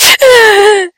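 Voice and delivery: high, squeaky imitated sobbing; silent crying. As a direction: mimic a brother's stifled cry. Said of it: "He's silently crying to himself".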